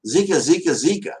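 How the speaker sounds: high, loud, otherworldly repeated name calling; a channelled spirit calling out through the medium; lightly voiced spirit speaking through a medium; entranced spirit voice.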